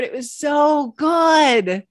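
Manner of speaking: rapturous peach praise; ecstatic shout. Real, not acted. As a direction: shout it out in delight. Reliving the peach.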